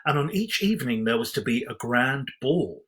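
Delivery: storybook reading voice, measured and even; story narration. A narrator's reading. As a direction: read it like a bedtime storybook. Reads Cinderella story aloud.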